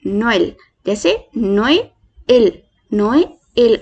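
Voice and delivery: नोएल said slowly, no-e-el split apart; two e sounds apart. Shown as a demonstration. Teacher spells out Noël for the class. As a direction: pull नोएल into no-e-el. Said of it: "तो हम इसको कैसे pronounce करेंगे?".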